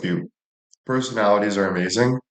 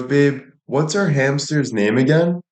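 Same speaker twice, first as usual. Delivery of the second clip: put-on girlfriend's voice; 5 semitones higher than usual. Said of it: "She goes".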